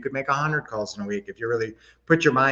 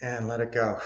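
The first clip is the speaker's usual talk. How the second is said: soft and low let go; calm release; 3 semitones lower, 6 dB quieter than usual. Shown as a demonstration. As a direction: ease them into release. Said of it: "Always with a big smile".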